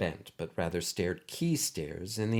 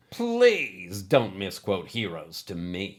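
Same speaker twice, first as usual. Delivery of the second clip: sneering; 3 dB louder, slower than usual. Acted. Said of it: "he sneered".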